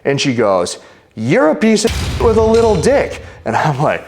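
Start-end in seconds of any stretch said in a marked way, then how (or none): 1.2-3.2 high-pitched mock screech of an insult; imitating shouting woman. Woman insulting man at airport, mock high-pitched shouting. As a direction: hurl it back in her put-on high voice. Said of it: "she's just shouting at me".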